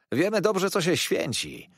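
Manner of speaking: high street-urchin jeer; mocking taunt. A narrator's reading. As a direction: tease the old man in a high voice. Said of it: "przedrzeźniających go".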